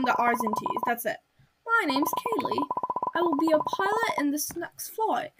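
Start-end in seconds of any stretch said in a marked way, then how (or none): 1.7-5.3 put-on wobbly British accent sliding into Australian; British accent turning Australian. Pilot introduces herself to passengers, British-turning-Australian accent. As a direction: attempt British, drift toward Australian. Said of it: "See, I'm turning Australian".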